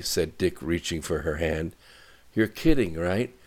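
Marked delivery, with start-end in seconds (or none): 2.3-3.3 higher-pitched, hurried protest; rattled off. A narrator's reading. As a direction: rattle out worried objections in a raised pitch. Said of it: "rattled Katie as fast as she could talk".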